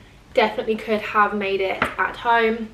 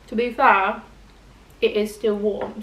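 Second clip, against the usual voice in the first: talking through a mouthful of food; mouth full. Real, not acted. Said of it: "I hate talking with my mouth full".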